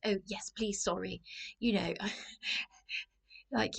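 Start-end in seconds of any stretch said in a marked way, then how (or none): 0.0-1.2 mild mock fluster; anxious, apologetic politeness. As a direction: apologise as you accept, a touch nervously. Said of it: "I'm so anxious".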